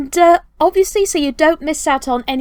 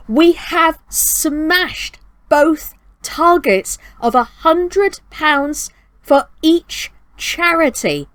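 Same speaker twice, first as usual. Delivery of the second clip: proud announcement; 6 semitones higher, slower than usual. Real, not acted. Announcing fundraiser targets smashed.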